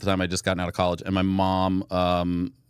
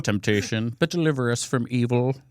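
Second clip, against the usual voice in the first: a hint of movie supervillain in a prayer; Doctor Evil. Shown as a demonstration. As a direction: recite it as a lightly voiced villain. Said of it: "comes out a little Doctor Evil".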